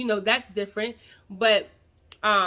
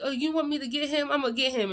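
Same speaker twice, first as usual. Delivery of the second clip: higher, teasing protective dad; playful dad; 4 semitones higher than usual. Retold or imitated. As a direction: play along as the daddy ready to get him. Dad voiced in a story.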